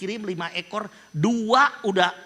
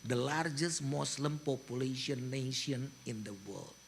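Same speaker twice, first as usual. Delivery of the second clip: soft, low and tender, slowing right down at the end; gentle sermon voice; 4 semitones lower, 6 dB quieter than usual. Retold or imitated. Pastor retelling his soft tender speech to Israeli soldiers. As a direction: speak to them softly like a loving father. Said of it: "Aku ngomongnya begini".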